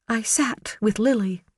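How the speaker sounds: high, pleading woman's voice; earnest, anxious defence of her husband; Karen's voice. Acted. Karen defending Garrett on the stand, high and pleading.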